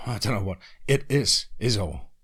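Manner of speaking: a hint of a country accent, mocking. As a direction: echo his country accent back at him. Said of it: "speaking with his country accent".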